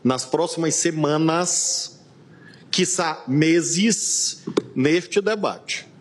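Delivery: very slow, drawn-out words; grave deliberate emphasis. Real, not acted. Warning the presiding justice about the debate, slow and deliberate. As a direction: stretch each phrase out for weight.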